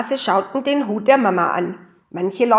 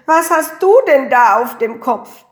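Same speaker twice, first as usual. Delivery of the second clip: higher, louder jeering question; mock screech; 4 semitones higher, 6 dB louder than usual. A narrator's reading. Papa and Josef pointing at Mama in the hat, mock screech. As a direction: screech it at her, without going full out. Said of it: "zeigten auf die Mama und kreischten".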